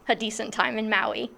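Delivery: softly laughing at herself. Real, not acted. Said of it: "How ridiculous to say".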